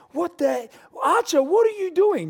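dad catching his son hurting his brother; startled parent. Retold or imitated. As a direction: catch the child in the act. Parent scolding toddler.

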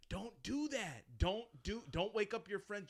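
high, pressing mock pleading; urgent warning. Police on the phone urging Jess not to wake friends, high pressing warning. And you can hear 'em.

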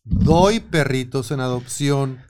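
slow, spelled-out reading of the ad; slow dictation pace; dictating punctuation. Shown as a demonstration. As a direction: read it slowly as if dictating the commas. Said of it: "faltó comas, puntos".

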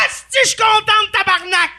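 mock drunk yell. Storyteller voices the drunk woman shouting her joy. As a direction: belt it like a drunk happy fan. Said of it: "elle se retourne".

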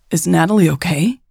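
mildly alarmed question with a lift at the end; a touch of worry. Acted. Raven asks after Natalie, mildly alarmed. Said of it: "she asked in alarm".

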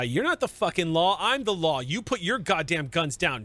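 fired-up defiance. Acted. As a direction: lay down the law, heated. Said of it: "she is responded by ... super fired up".

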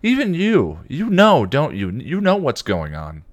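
put-on high, sharp accusing girl voice; furious. A narrator's reading. Dawn accusing Spike, furious and high. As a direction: glare at him and accuse. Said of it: "gave him a furious glare".

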